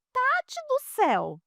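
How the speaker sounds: high, excited imitation of the mother; mother's delighted cry, retold; grateful exclamation. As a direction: squeal her thanks. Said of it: "falou assim".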